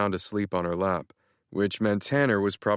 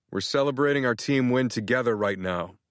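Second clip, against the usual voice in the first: firm; 3 semitones higher than usual. Acted. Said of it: "I said more firmly".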